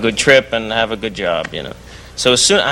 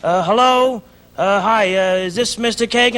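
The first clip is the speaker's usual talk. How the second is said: higher put-on Jewish London accent; 7 semitones higher than usual. Prank caller posing as a violinist, higher Jewish London accent. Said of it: "I go".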